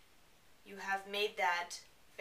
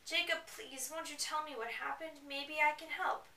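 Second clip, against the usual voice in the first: put-on higher, pleading girl voice; pleading Bella; 5 semitones higher than usual. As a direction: beg him, pitch up.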